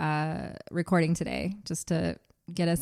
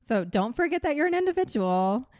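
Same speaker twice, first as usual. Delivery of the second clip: livelier, higher reread; less robotic; 7 semitones higher than usual. Shown as a demonstration. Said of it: "That sounds less robotic".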